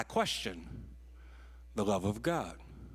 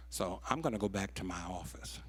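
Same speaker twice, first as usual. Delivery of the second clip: softly whispered, no raised voice; quiet, calm exit; 5 semitones lower, 5 dB quieter than usual. Retold or imitated. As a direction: let him leave without raising his voice. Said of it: "he never raised his voice".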